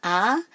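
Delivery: a long, isolated "a"; emphasised A. Shown as a demonstration. Teacher isolating the stressed syllable, long emphatic "a". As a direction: hold the vowel "a" on its own. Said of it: "So the emphasis is on a".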